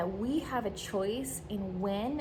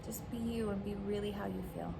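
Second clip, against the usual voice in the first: gentle reading. Shown as a demonstration. Reads out a supportive script.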